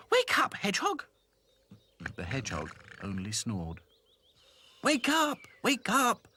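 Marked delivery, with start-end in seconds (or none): 0.1-1.0 high calling shout. Acted. Princess calling hedgehog. 4.8-6.3 high loud calls; crying out. Acted. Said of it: "cried all the Raggy Dolls".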